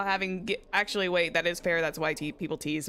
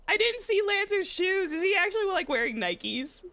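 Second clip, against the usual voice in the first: surprised; 12 semitones higher than usual. Real, not acted. Excited surprise at Nikes.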